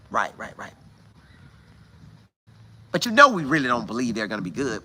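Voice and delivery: a hint of smug TV pundits dismissing the team; mock TV pundits. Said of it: "This is what they saying".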